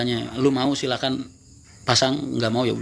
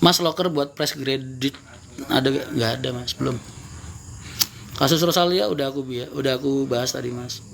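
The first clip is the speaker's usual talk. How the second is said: cigarette in mouth. Real, not acted. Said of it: "aku sambil ngerokok ya".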